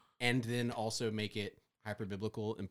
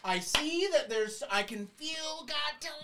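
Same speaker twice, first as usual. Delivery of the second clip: a fortune teller in the pulpit, much higher and louder; mystical horoscope reading; 10 dB louder than usual. Retold or imitated. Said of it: "sound like a fortune teller".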